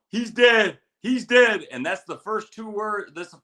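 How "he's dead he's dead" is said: urgent shout, pitched high and loud; Tito. Retold or imitated. Teller imitating a platoon leader in the Iraq video, high urgent shouting. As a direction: cry it out high, hitting DEAD hard. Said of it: "all you hear is Tito going".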